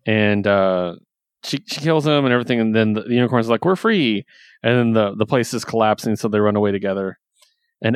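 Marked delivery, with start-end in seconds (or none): 3.7-4.2 high-pitched cheer of release; mock joyful cry. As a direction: lightly act out a freed captive's glee. Freed unicorns' cry, acted out.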